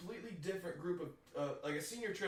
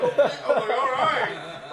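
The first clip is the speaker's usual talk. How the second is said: loud, high, nervous; high nervous yes; 8 semitones higher, 15 dB louder, slower than usual. Retold or imitated. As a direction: squeal agreement. Retold fearful compliance.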